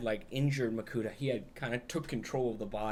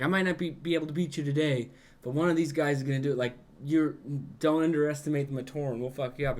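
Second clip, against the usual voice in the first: defiant hero; 3 semitones higher, 4 dB louder, faster than usual. Retold or imitated. Hero defies villain, retold.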